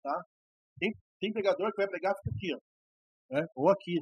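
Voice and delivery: soft, distant from the microphone; off-mic. Shown as a demonstration. Teacher showing bad microphone placement to preachers, off-mic and faint. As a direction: speak away from the mic so it fades. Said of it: "Não fique com o microfone assim".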